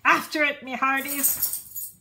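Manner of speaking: loud captain's order; commanding. A narrator's reading. Braidbeard ordering the crew after the ball, loud command. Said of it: "Braidbeard commanded".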